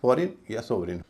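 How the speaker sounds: फॉरेन या सोवरेन with light "-rin" endings; correct pronunciation. Shown as a demonstration. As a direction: stress the first syllables of फॉरेन या सोवरेन, reduce the last. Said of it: "इसीलिए इसका उच्चारण होगा". (फॉरेन या सोवरेन, आख़िर में हल्का "रिन")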